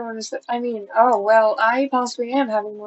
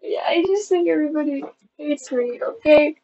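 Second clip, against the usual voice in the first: subdued tearful admission, falling at the end; 3 semitones higher than usual. Real, not acted. Vlogger repeating the fear to viewers, subdued and tearful. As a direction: say it through tears, settling downward. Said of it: "I don't know why I'm crying".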